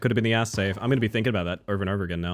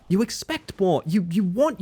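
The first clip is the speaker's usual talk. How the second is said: higher, sharper restatement; pitched-up indignant repeat; higher insistent; 9 semitones higher, slower than usual. Real, not acted. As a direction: press the point up in pitch. Repeats the complaint for emphasis.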